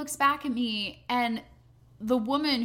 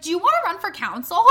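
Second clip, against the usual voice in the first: laughing quote; 5 semitones higher, 9 dB louder than usual. Retold or imitated. Retold offer, laugh heard.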